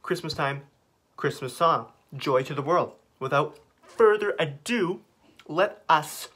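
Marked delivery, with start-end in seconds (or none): 3.2-6.3 slow, drawn-out announcement; mock grand announcer. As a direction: announce it like a showman.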